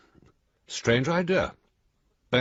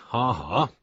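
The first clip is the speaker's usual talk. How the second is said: dry mock laugh. Mocking the friend's joke.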